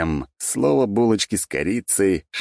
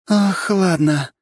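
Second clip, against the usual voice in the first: slow, doomed sigh; resigned sigh; 5 dB louder, much slower than usual. A narrator's reading. Lera giving up on Valentin, slow resigned sigh. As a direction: give up with a long exhale. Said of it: "обречённо вздохнула Лера".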